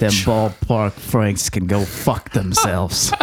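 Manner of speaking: showing off. Pretend. Slow sausage trash talk.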